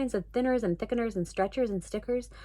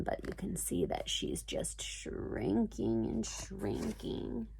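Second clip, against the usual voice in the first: whispering; 4 semitones lower, 11 dB quieter, slower than usual. Real, not acted. Aside to child over picture.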